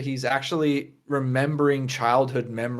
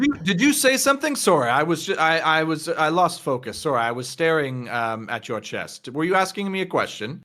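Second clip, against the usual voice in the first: higher, stumbling apology in light character voice; distracted, tipsy-sounding patron; 4 semitones higher than usual. Patron caught staring at her chest, flustered apology. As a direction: lose the thread and fumble an apology. Game master plays distracted NPC.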